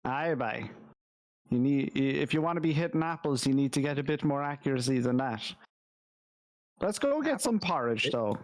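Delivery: lightly voiced gruff mentor; a hint of a teasing old mentor; character voice. Player voices Grandolph in character.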